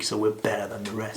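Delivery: low, chuckling through the boast; mock boast, half laughing; laughing joke. Real, not acted. German joking about Germans.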